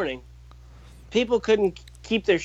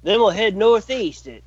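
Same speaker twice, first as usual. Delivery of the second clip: put-on Old Prospector; 2 semitones higher than usual. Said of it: "Old Prospect is the greatest skit".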